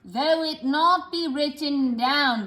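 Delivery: though drawn out, falling each time; practising a stretched though; stretched word. Shown as a demonstration. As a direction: repeat though, elongated and descending. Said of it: "stretch these words".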